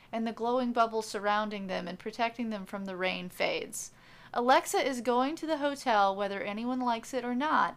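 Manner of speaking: steady storyteller voice setting the scene; story narration. A narrator's reading. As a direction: read it like an audiobook narrator.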